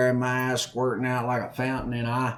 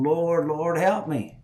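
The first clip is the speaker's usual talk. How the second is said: mock pleading; 5 semitones higher, slower than usual. Acts out a desperate plea.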